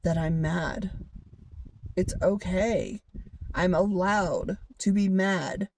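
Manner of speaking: slow, gentle reassurance to yourself; calm yourself down slowly; slow soothing words to yourself; soothing self-talk. Retold or imitated. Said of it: "I just kept telling myself".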